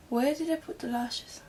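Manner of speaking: playful put-on British accent. Vlogger hunting for the lashes, in a put-on British accent. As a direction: ask it in a light British accent. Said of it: "I do a British accent sometimes".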